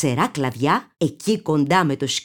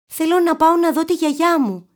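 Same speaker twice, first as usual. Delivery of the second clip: Little Red Riding Hood; 10 semitones higher, 4 dB louder than usual. A narrator's reading. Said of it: "είπε".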